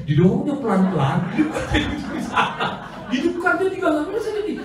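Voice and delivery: laughs through the story, pitch up; giggling as she tells it; laughing while telling. Real, not acted. Laughing as she tells the congregation about the motorbike.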